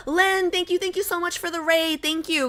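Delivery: high, gushing thanks; gasp, then thank them in a high voice; delighted high-pitched surprise; surprised gratitude. Real, not acted.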